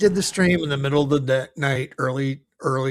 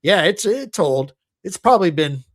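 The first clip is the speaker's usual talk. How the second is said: imitating Joey; 3 semitones higher, 5 dB louder than usual. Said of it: "he's like".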